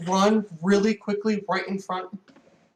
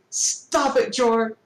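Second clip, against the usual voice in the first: higher-pitched mild mock scream; attempted scream; 3 semitones higher, 3 dB louder, slower than usual. Doc protests to Jor while held, mild attempted scream. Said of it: "You can hear Doc try to scream".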